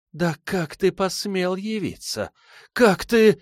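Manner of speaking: high, slow, shaking with rage then breaking into a cry; furious woman. A narrator's reading. Silva confronts the man she blames, furious and high. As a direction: spit out the fury at him. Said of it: "в её голосе было слышно ещё больше ярости".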